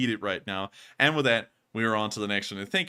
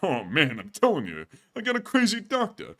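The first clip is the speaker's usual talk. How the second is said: steady raspy comic complaint, no crack; Rodney Dangerfield; 4 semitones higher than usual. Acted. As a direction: clean Dangerfield-style whine. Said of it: "All right, take two".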